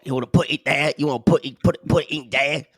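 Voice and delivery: stagey period drama. Pretend. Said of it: "Victorian streetwalker who's got some type of plague".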